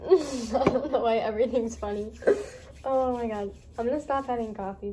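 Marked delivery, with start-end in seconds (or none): 0.1-3.5 talking through real laughter; giggling. Real, not acted. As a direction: giggle helplessly while you speak. Laughing fit on too much coffee.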